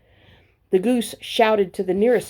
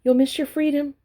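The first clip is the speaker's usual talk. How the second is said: higher, honking warning; honking goose; 7 semitones higher than usual. A narrator's reading. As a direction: honk it like a goose. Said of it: "honked the goose".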